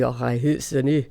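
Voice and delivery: slow mock Scottish accent on German. Singer mimics Scottish schoolmates speaking German, in a Scottish accent. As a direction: imitate Scottish kids' German, drawn out slowly. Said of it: "all had Scottish accents".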